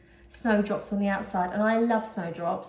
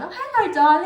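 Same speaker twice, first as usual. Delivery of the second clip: much higher, loud sing-song hello; sing-song greeting to her partner coming home; fond greeting; 9 semitones higher, 8 dB louder than usual. Real, not acted. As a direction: greet your darling with delight.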